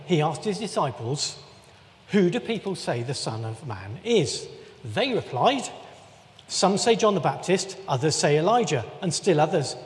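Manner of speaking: measured, even Bible reading voice; scripture reading. Acted. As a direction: read the passage steadily to the congregation. Reads Matthew sixteen aloud.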